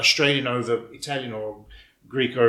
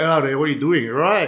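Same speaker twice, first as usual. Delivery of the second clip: put-on Melbourne Australian accent; 4 dB louder than usual. Retelling talking to a brother: imitating own Melburnian ethnic accent. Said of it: "my Melburnian ethnic accent kicks in".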